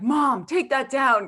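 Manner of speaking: lightly voiced annoyed son. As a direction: imitate her son scolding her, slow. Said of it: "Seaback is so mad at me".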